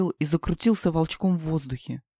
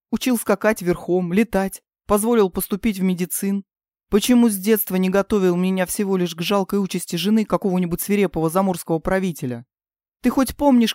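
upset; 3 semitones higher than usual. Acted. Princess argues with king.

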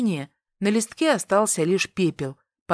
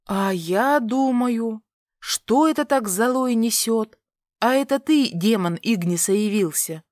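sing-song jeer, pitched up; mocking taunt; 4 semitones higher than usual. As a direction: tease him like a rival. Heroine taunts the prince.

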